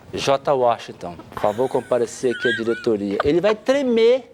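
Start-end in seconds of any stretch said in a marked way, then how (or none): 0.1-3.2 formal summons. Retold or imitated. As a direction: summon him like the school office. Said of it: "se a Darley fala assim". (chamada formal e lenta, tom de diretoria)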